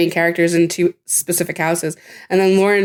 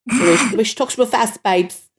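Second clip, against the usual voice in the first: light impression of a singer; 4 semitones higher than usual. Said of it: "sound like Adele".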